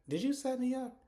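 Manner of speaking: high, loud mock accusation; accusing. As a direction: confront him, imitating a suspicious man. Retold accusation of Charles.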